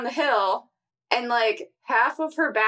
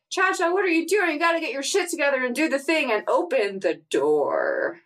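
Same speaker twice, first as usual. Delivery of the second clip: lightly acted scolding, starting high; high-pitched nagging that settles as it runs on; Buddy Cop; 4 semitones higher than usual. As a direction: urge a dawdler on in a recap. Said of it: "and Buddy cop's like".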